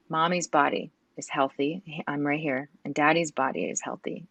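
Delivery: put-on hushed, careful voice for a three-year-old; gentle telling. Telling her toddler about the death.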